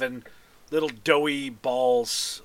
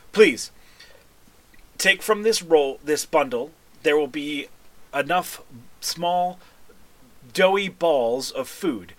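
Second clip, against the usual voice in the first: lightly voiced stately envoy, deliberate phrasing; formal Triton envoy. Envoy offers the party a blessed bundle, stately. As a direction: present a sacred gift with measured formality.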